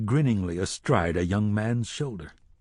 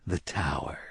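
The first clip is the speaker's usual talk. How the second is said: a soft lowered reveal; 5 semitones lower, 5 dB quieter than usual. A narrator's reading. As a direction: lower and softer, hushed. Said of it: "the man in black said softly".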